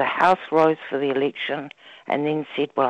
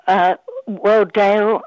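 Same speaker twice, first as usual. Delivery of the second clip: croaky voice; 4 semitones higher, 5 dB louder, slower than usual. Real, not acted. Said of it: "a bit of a frog in her throat".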